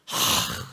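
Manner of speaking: quiet, breathed-out sigh of frustration; exasperated sigh. Acted. Preacher reacting to an unfair Bible passage, exasperated sigh. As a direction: let out a soft huff of annoyance. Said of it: "막 성질이 나요".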